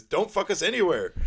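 laughing retort. Retold or imitated. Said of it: "He goes".

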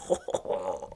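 soft comic imitation laugh; Ronnie Corbett laugh. Shown as a demonstration. Impressionist demonstrating his supposed Ronnie Corbett laugh, softly. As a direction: laugh like a little sitcom comedian, quietly. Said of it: "I occasionally laugh a little".

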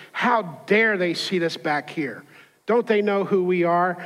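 mock haughty indignation; indignant complaint. Angry wife complains about her seat on the plane, mildly indignant. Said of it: "she's talking like this".

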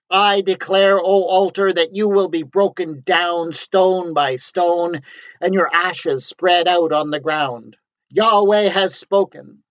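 high, loud, slow ecstatic scream at the altar; prophet screaming. Acted. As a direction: scream the curse, drawn out and high. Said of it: "the new arrival screamed".

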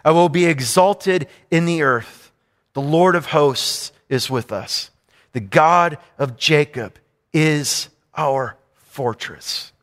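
slow, solemn Bible reading, slowing toward the end; scripture reading. Acted. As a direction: read the verse with slow, weighty pauses. Reads scripture aloud.

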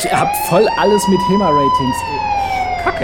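high, fast frantic babble; panicking gamer. Acted. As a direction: rattle it off in a panic. Sketch: panic over fencing gear.

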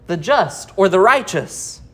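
"just" and "righteous" each set out with emphasis; stress on just and righteous. Shown as a demonstration. Preacher quoting Paul to the congregation, stress on just and righteous. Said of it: "puts emphasis on just or righteous".

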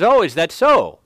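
high, loud, emphatic acted comeback; God's retort. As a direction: answer the challenger with forceful confidence. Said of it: "And God says".

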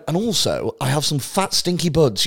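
lightly put-on posh English accent; mock-posh gent offering weed. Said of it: "Posh, posh for fucking art".

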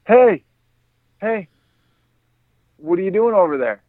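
put-on high kid voice hailing strangers; imitated calling out. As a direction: call across the street like a nosy boy. Kid calling to people across street.

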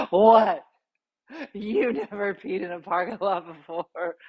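mock a defiant drunk girl. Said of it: "completely plastered".

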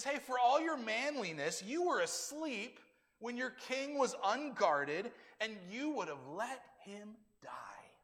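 high, loud taunt that slows and eases off; calling out. Acted. David calls out the commander who slept on guard, taunting challenge. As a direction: call out a rebuke, stretching the key words. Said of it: "he calls out Abner".

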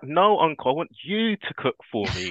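put-on a little girl not taking no for an answer; insistent niece. Niece insists on being cooked for.

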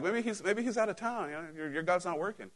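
lightly mock them with made-up excuses. Elijah to the prophets as their god fails, mocking. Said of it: "So he's, like, mocking".

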